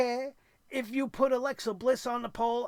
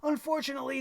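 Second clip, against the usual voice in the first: ordinary talk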